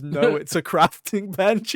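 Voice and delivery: drawn-out flat game narrator; game text voice. Retold or imitated. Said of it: "the game just says".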